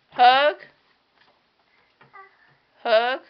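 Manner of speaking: high, loud sing-song coaxing. Real, not acted. Mother coaxing her baby daughter, high sing-song baby talk.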